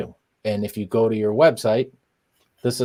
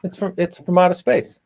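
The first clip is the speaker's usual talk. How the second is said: put-on Boston accent; 8 semitones higher than usual. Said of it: "You do a Boston accent better than me".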